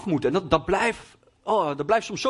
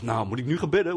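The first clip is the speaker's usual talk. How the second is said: low, disbelieving question on bidden; incredulous thought; 5 semitones lower than usual. Retold or imitated. Angry son doubting his girlfriend's call to pray, incredulous. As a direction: scoff at the idea of praying right now. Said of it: "En ik dacht".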